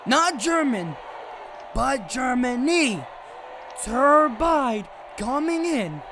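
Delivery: booming ring announcer intro; arena announcer. Acted. Streamer announcing fighters to the crowd, ring announcer. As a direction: call it out like a wrestling emcee.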